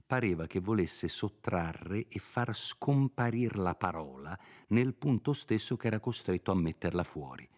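plain reading voice

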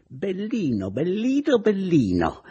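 high, loud, seething taunt; furious old aunt. Acted. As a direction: spit it at the boy in rage. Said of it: "scappando via al solito sulle furie". (zia furiosa, voce acuta e forte)

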